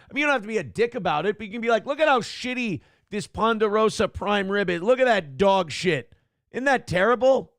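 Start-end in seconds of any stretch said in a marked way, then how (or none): 1.9-7.5 mock shout. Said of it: "then I just shout dog shit".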